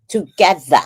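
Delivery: "Together" with a New York accent; lightly stressed New York "Together". Shown as a demonstration. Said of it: "that's how I talk in New York".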